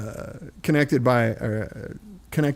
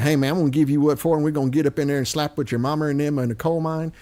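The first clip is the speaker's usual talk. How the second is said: put-on Missouri redneck accent; faster than usual. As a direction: imitate a Missouri country redneck, rattled off quickly. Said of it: "I'll tell you what Missouri sounds like".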